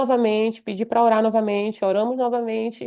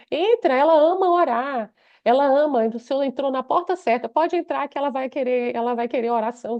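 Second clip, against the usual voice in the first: higher-pitched, lightly imitated enthusiastic invitation; eager welcome; 3 semitones higher than usual. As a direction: welcome the visitor in, stressing the first words. Husband eagerly welcomes the pastor. (convite acolhedor e animado, imitado)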